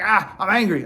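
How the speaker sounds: mild mock outburst of anger; mock angry. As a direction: play at being mad. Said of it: "if I'm mad, if I'm pissed".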